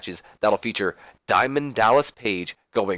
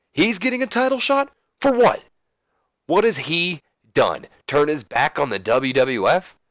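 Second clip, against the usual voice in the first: indignant protest; 4 semitones higher than usual. Acted. Wrestler angrily protests rival's title shot.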